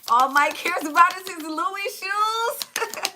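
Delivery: slow amused aside through laughter; slowed-down giggly remark; laughing aside. Real, not acted. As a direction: tease the chat while still laughing. Amused comment on chat.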